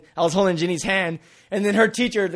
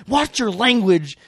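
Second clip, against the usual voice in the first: slow, raised-pitch reprimand; scolding teacher; 4 semitones higher, much slower than usual. Retold or imitated. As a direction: imitate a teacher's drawn-out warning.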